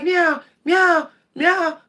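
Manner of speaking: high mock meows; playful meowing; cat meowing. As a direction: imitate the cat's meow. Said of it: "He's like".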